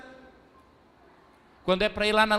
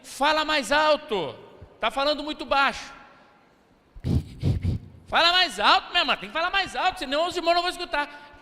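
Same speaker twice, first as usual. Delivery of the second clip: higher, fast, pushy mock urging; imitating the drama sister; 6 semitones higher, faster than usual. Pastor mimicking the theater sister telling someone to speak up. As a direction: ham up a bossy drama leader, rushing the last lines. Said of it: "A irmã do teatro diz assim".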